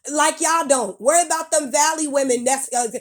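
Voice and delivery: furious lecture; angry rant. Real, not acted. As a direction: let it all out at them. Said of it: "That's why I spoke angrily".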